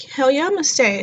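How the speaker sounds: high, gleeful agreement; eager yes. Retold or imitated. New mom told she's kept at the hospital, high and delighted. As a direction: pounce on the chance to stay. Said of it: "And I was like".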